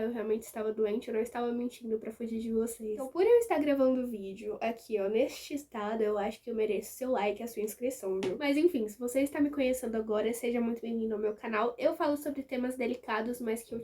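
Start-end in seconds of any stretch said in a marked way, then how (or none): 0.0-8.4 talking with a swollen, cracked lip. Real, not acted. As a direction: speak around a sore swollen lip. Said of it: "minha boca está estourada assim".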